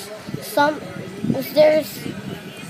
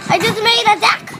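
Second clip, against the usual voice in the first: odd put-on voice; 6 semitones higher, faster than usual. Real, not acted. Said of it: "Why am I talking like that?".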